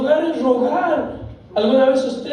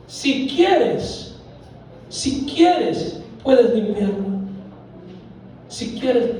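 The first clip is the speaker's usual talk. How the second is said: begging; much slower than usual. Retold or imitated. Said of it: "él estaba rogando".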